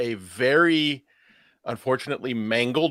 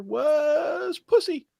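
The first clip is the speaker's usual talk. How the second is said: higher, half-shouted through a laugh; laughing punchline; 14 semitones higher, much slower than usual. Real, not acted. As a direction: land the punchline cracking up.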